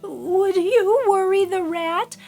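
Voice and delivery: put-on old woman begging.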